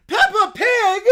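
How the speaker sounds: loud, high gotcha shout; accusing exclamation. Acted. Bear catching Peppa on the phone. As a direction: unmask the caller.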